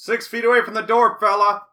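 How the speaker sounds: loud high yell; threatening shout. Retold or imitated. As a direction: yell with an axe in hand. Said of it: "grabs a fire axe and goes".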